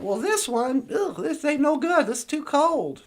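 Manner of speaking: put-on lightly southern-accented complaint. Goldilocks rejecting the second bowl, mild southern accent. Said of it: "there's your southern accent again".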